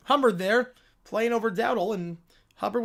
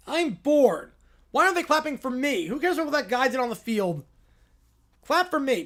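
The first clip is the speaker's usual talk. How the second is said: whiny princess. Acted. Princess demanding the crowd clap for her. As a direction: demand attention like a brat.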